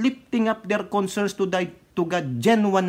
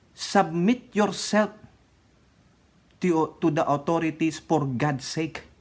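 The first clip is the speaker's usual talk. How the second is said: slow scripture quote; slower than usual. Retold or imitated. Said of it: "anong sabi ng Diyos".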